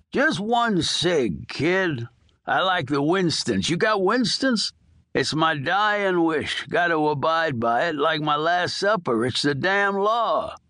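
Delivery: lightly voiced old prisoner begging; dying old convict. Old inmate coaxing the nurse for a smoke, lightly voiced. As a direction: wheedle like a hard old con, only a hint of a character voice. Earl pleads for a cigarette.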